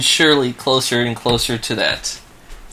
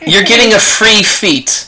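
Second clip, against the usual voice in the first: higher, drawn-out announcement; emphatic award; 7 semitones higher, 4 dB louder than usual. Real, not acted. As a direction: slowly proclaim the prize, pitched up. Game master awards feat after performance.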